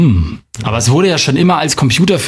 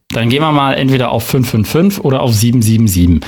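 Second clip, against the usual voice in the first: usual speaking voice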